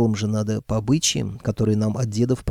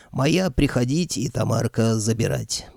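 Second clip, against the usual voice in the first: growling brute. Acted. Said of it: "прорал он".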